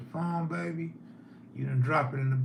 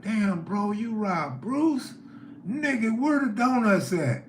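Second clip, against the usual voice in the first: mock outraged shout; 8 semitones higher, 3 dB louder than usual. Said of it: "I'm like".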